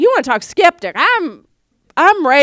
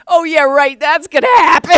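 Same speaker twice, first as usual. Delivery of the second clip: sarcastic doubt; 3 semitones higher, 7 dB louder than usual. Retold or imitated.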